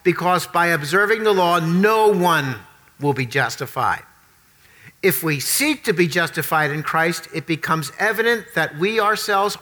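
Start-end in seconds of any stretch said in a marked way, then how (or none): 0.0-4.0 scripture reading. Acted. Reads scripture aloud.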